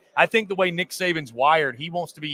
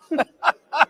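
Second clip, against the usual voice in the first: a burst of high loud laughter; laughing at the coach's zinger; real laugh; 10 semitones higher, 5 dB louder than usual. Real, not acted. Co-host laughs at the zinger, high and loud. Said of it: "the quick little zinger there".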